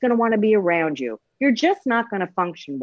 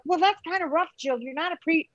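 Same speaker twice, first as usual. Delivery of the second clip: higher, mock-whiny patient pushback; skeptical patient; 9 semitones higher, 3 dB quieter than usual. Patient complaining to Jill, mock-whiny and higher. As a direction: play the patient grumbling at the doctor. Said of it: "I know people are like".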